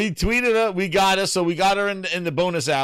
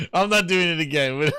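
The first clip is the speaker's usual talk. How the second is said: said through a laugh; can't hold back a laugh. Real, not acted. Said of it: "repeat while laughing".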